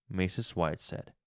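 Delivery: ordinary delivery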